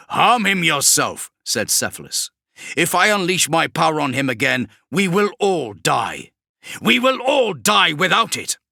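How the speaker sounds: high, loud and desperate; fearful sorcerer. Acted. Cephalus refusing Kravrek, high and loud. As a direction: refuse him in a panic.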